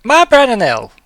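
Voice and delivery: loud, high incredulous question; astonished at the news; stunned disbelief. Acted.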